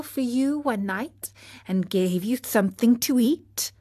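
lightly voiced old snail reminding him. Snail reminds Pinocchio of the fairy, gently.

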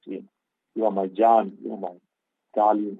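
mock-coax a husband with sweet names; loving endearments. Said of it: "call him by lovely names".

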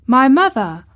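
put-on startled boy's question, high and loud; surprised child, voice lifting sharply; Colin. A narrator's reading. Boy hears his mother mentioned, surprised. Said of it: "said Colin".

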